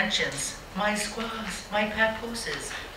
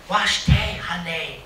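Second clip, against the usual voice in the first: breathy flirt. Pretend. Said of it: "say in a breathy tone".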